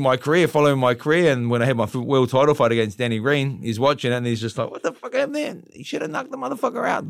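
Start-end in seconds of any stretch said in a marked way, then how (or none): 4.7-7.1 very high-pitched boxer imitation; Mike Tyson impression. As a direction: put on the champ's high voice. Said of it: "you have got his voice down well".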